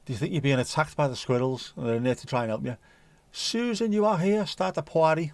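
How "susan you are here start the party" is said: voicing the cat. Voicing cat inviting party.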